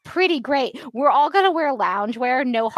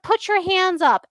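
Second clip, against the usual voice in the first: high, slow mock order; mock cop command; 7 semitones higher than usual. Agents ordering a hologram, mock command pitched up. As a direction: bark it like a trigger-happy agent. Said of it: "They were like".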